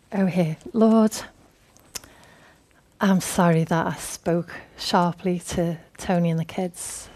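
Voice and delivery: soft, subdued acted apology; mock confession. Us asking God's forgiveness, acting softly contrite. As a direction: confess humbly, voice held down. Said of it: "for his forgiveness".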